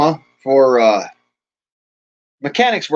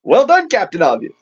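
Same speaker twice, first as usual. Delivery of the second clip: sarcastic; 3 semitones higher than usual. Shown as a demonstration. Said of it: "You see the difference?".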